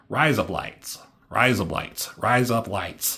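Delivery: mock Australian accent, phrase repeated; playful Australian-accented demonstration. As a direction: say "Rise up lights" like Australian "razor blades". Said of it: "in an Australian accent".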